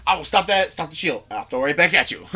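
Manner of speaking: mock evil villain taunt; booming echoing villain monologue. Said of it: "And then evil monologue".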